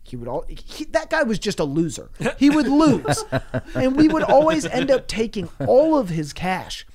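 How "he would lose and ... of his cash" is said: laughing through the words; high laughing chuckle. Real, not acted. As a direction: giggle while telling it.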